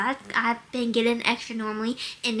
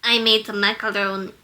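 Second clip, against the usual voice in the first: attempted Russian accent, pitched down a little; low Russian accent; 3 semitones lower than usual. Shown as a demonstration. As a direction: aim for a low Russian woman's voice. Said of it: "She does not go that low".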